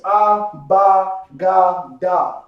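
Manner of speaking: Ah, Ba, Ga, Da said as short open syllables, each alone; letter sounds. Shown as a demonstration. Teacher drilling the class on letter sounds, slow and clear. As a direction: sound out "Ah, Ba, Ga, Da" one by one. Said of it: "That's the sound that you want".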